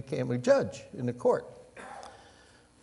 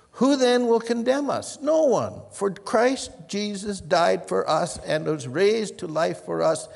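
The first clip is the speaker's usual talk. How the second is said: loud, high triumphant reading; proclaiming; 6 semitones higher, 4 dB louder, slower than usual. Acted. Preacher proclaiming Romans to the congregation, loud and high. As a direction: ring it out to the whole church.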